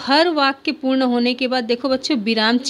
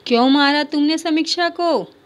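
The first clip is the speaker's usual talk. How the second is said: higher, louder scolding; mother scolding; 5 semitones higher, 4 dB louder than usual. Acted. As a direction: demand an answer from the son. (माँ की बेटे को ऊँची डाँट)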